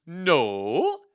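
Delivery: loud, swooping Swedish refusal; Swedish accent. Acted. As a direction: exclaim in a hammy Swedish accent. Lady Anne's acted Swedish reply.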